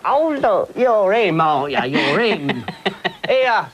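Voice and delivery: high, loud star-struck fan voice; gushing fan. Retold or imitated. Fan spotting the star in the street, high excited gush. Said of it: "some lemon comes out and goes".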